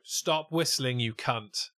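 mock yell, held back from full volume; imagined shout. Audience member yelling at a whistler, half-held shout. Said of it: "shouted at the top of my throat".

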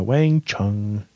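cute and earnest. Real, not acted. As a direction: say the name earnestly. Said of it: "cute and earnest right there".

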